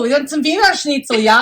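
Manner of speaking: lightly German, with a v in Wiener; mock German food pitch; German accent.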